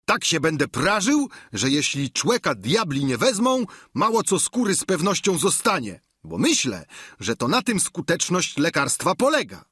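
high-pitched, eager servant voice; Sancho. A narrator's reading. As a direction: play the squire pitched well above the narration. (wysoki głos giermka)

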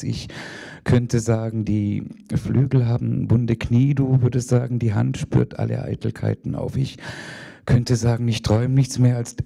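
measured, rhythmic poetry recital; poem reading. Acted. Reads her poem aloud.

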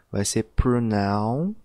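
pronoun stretched slowly with a rising end; slow pronoun demo. Shown as a demonstration. Teacher modeling the pronoun start for students, slow and rising. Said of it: "seguir essa mesma fórmula".

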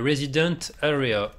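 says Resident Area in a put-on English accent; lightly mock English accent, proud of it. Gamer reading a sign in English accent. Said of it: "j'adore mon accent anglais".

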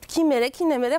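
put-on loud, laughing Mashhadi accent. The singer tells her laughing mother, in Mashhadi accent. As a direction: repeat it proudly in Mashhadi accent. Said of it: "گفتم".

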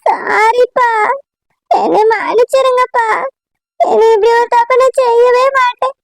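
tearful, sobbing plea; crying apology. Acted. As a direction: beg forgiveness through tears. Daughter begs father's forgiveness. (அழுதுகொண்டே மன்னிப்பு)

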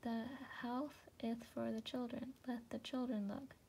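father mouse answering with his mouth full. Acted. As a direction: talk round a bite of food. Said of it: "with his mouth full he said".

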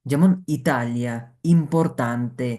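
"ইতালিয়া, ইম্পর্তান্তে" spoken slowly and evenly; slow teacher model words; slow careful Italian. Shown as a demonstration. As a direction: spell out each syllable of "ইম্পর্তান্তে". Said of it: "এইভাবে বলতে হবে".

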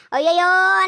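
fed-up loud wail; exasperated cry. Acted. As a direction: throw up your hands in despair. Husband's exasperated outburst.

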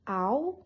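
"ow" said alone as the first syllable. Shown as a demonstration. Teacher splits owls into two syllables for a learner, "ow" alone. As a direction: sound out just "ow", apart from the rest. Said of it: "practice saying in two syllables".

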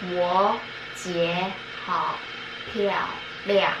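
stage whisper. Pretend. Whispered guessing game clue.

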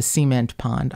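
"cement" as SEE-ment; front-stressed "cement" with a long ee; dialect pronunciation. Shown as a demonstration. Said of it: "I said cement".

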